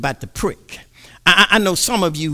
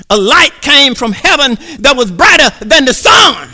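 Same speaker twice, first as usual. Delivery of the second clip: louder, higher proclamation; preacher raising the roof; preaching shout; 4 semitones higher, 5 dB louder than usual. Acted. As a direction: ring it out like a revelation. Preacher climaxes on the light.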